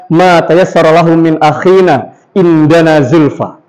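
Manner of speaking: slow, level announcement from "khairu manaftatihu" on; measured Arabic "indana zulfa" with little melody; flat Arabic MC delivery. Shown as a demonstration. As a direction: keep "tilawatu ma tayassara" even, without waves. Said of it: "Contoh misalkan yang lain".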